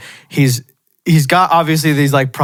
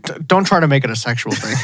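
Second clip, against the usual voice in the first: laughing quote; 3 semitones lower, faster than usual. Retold or imitated.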